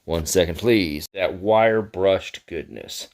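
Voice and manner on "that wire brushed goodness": slow, drawn-out mock admiration; sarcastic. Real, not acted. Showing viewers the fake-ass Hamon, sarcastic praise. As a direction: savour it slowly with dry sarcasm. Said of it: "I'm being sarcastic".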